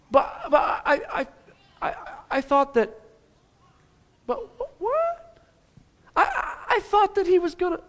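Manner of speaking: high, stammering, bewildered voice; confused crowd. Retold or imitated. Disappointed crowd questioning Jesus, high and stammering. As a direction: stutter in high-pitched disbelief. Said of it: "And they're like".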